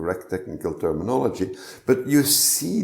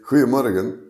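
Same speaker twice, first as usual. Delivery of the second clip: Flemish accent; 3 semitones higher, 5 dB louder, faster than usual. Shown as a demonstration. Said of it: "with a Flemish accent from Belgium".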